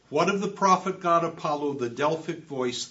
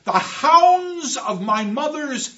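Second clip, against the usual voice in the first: higher and louder, still in terror; desperate insistence; 8 semitones higher, 9 dB louder than usual. Acted. Orestes tells the chorus the hounds are real, desperate and loud. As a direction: insist it is real against disbelief.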